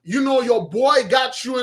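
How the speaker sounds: a buddy greeting his friends, hyped; mock street greeting. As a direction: imitate a guy bigging himself up. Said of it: "Don't talk like that".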